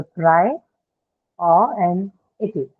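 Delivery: word broken into separate syllables with pauses. Shown as a demonstration. Teacher breaking a word up for learners, syllable by syllable. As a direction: say "pri, o and iti" in careful separate pieces. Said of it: "This is how you articulate it".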